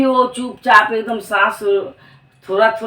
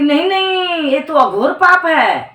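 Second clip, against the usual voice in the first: shocked refusal; 6 semitones higher than usual. Acted. Wife refuses to lie about death.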